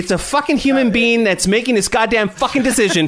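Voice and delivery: heated shouting, pitch climbing high; yelling in outrage; angry rant. Real, not acted. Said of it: "calm yourself".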